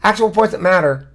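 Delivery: real frustration, pressing the point; emotional, emphatic protest. Real, not acted. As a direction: insist heatedly, hitting key words hard. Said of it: "gesticulating and shouting".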